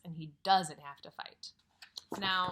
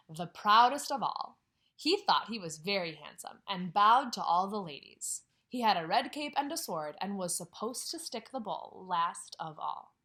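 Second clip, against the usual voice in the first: lively read-aloud voice; story narration; 2 semitones lower than usual. A narrator's reading. Teacher reading a picture book to her class, lively.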